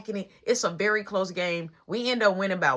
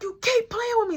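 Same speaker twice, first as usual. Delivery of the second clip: much higher mock mom voice; imitating angry mom; 13 semitones higher than usual. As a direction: play the fed-up mother, pitched up. Mom beating the brother.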